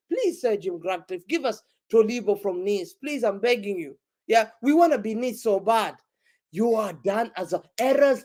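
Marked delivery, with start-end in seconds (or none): 0.1-6.0 low, softened mock plea; mock begging. Rival fan begging Sir Jim Ratcliffe for a player, mock pleading. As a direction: beg half-heartedly, pitch dropped. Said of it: "now you have to beg him".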